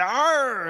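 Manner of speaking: half scream, half pirate growl; a high, loud pirate's arr; pirate yarg. Retold or imitated. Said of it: "somewhere in between a scream and a pirate's yarg".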